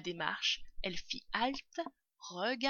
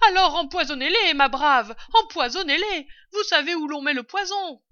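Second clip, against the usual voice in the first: high, loud command; calling down orders; 9 semitones higher, 14 dB louder than usual. A narrator's reading. Mistress telling servant to poison rats, calling down. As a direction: holler instructions down the stairs.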